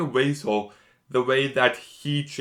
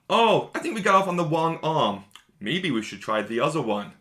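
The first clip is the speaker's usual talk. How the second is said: playful taunt; 4 semitones higher than usual. Retold or imitated. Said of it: "And then just".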